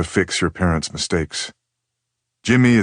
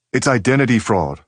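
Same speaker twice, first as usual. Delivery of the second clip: exclaiming; 5 semitones higher than usual. Retold or imitated. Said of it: "she'd exclaimed".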